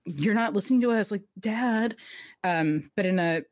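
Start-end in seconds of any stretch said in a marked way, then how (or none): 0.1-2.0 higher-pitched, lightly acted sulky complaint; mock petulance. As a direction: whine mildly at a parent, imitating. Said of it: "a petulant, like".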